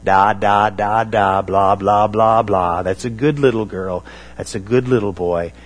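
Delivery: put-on gentle sing-song baby talk. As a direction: coo it like speaking to a toddler. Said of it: "address them in baby talk".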